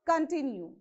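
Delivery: Continue with the stress on the middle syllable; conTINue, lean on the T syllable in Continue; stress on TIN. Shown as a demonstration. Teacher showing where to stress Continue, stressed middle syllable. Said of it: "you have to stress on T".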